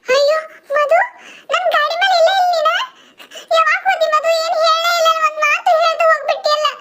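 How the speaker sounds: laughing through the words; laughing disbelief. Acted. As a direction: giggle it out, half in shock.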